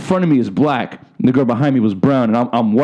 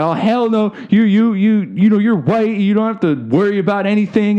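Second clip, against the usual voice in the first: pitched up, mock-haughty voice; mocking the woman; 7 semitones higher than usual. Imitating the woman's dismissive reply, mock-haughty and high. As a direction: do a snooty customer, higher. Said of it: "she was like".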